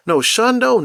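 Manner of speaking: high, whiny self-pitying lament; mock sad. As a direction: act out being let down, pitch climbing. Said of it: "And I'd be so sad".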